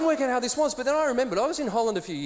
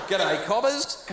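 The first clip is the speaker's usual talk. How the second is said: broad Aussie; much slower than usual. Pretend. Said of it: "I Aussie it up like you would not believe".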